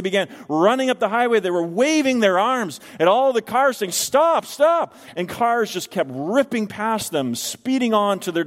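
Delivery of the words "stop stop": urgent shouts. Retold or imitated. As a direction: call out to warn speeding cars. Policeman waving down speeding cars.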